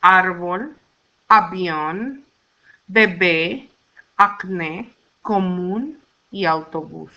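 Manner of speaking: measured list, hitting Á in Árbol and the final syllables of avión, bebé, acné, común, autobús; Árbol front-stressed, then avión, bebé, acné, común, autobús end-stressed; accent-mark stress. Shown as a demonstration. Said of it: "written accent mark or tilde overrules".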